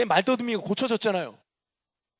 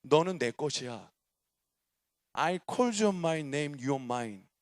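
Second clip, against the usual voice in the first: lower, soft and slow, intimate; voice of God, tender; 7 semitones lower, 5 dB quieter, much slower than usual. Retold or imitated. The Lord to the young man, low and tender. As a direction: speak like a gentle claim of love. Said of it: "그냥 말씀하셨어요".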